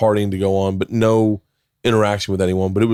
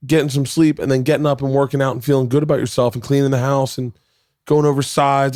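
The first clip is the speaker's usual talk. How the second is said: higher, self-scolding pep talk; scolding inner voice; 5 semitones higher than usual. Retold or imitated. To himself after a drunk night, higher scolding self-talk. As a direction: lecture yourself like a strict coach. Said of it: "and I thought".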